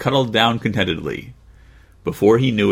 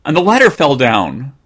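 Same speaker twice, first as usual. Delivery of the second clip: eager cry; 5 semitones higher, 5 dB louder than usual. Acted. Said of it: "cried Jimmy".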